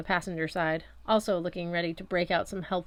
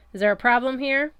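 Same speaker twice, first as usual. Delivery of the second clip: higher, louder challenge; hostile cop; 6 semitones higher, 8 dB louder than usual. A narrator's reading. Cop challenges the boy on the street, louder and hostile. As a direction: square up to him with open contempt.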